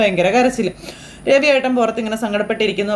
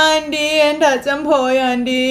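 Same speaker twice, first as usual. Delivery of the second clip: slow, higher, tearful plea; crying; 4 semitones higher, slower than usual. Acted. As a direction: weep it slowly to the aunt. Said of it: "ഭയങ്കര കരച്ചില".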